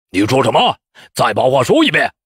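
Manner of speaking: irritated challenge, rising at the end; annoyed. A narrator's reading. Candidate challenging the examiner who insulted him, annoyed. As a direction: take offence and dare him to repeat it. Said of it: "江大清闻言恼火".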